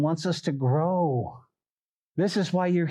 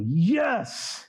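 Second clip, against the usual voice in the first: cheer; 2 semitones higher than usual. Acted. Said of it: "that's where we go".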